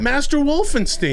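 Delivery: slow, high, pompous announcement of a title; mock grand title. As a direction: announce it like a grand villain's name.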